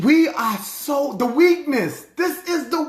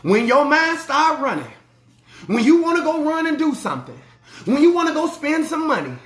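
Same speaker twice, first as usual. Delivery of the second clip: said slower; 3 semitones higher than usual. Shown as a demonstration. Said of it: "I'ma say it slower".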